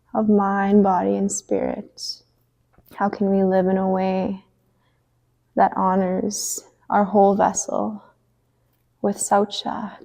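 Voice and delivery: measured cueing with long pauses; spacious, unhurried movement cues; guided yoga instruction. Acted. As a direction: lead a gentle stretch, phrase by phrase. Leads gentle stretches on the mat.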